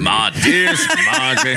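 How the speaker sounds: hammed-up Southern letter reading through laughter; Civil War letter-writer. Co-host joining the war-letter bit, mock-solemn with a laugh.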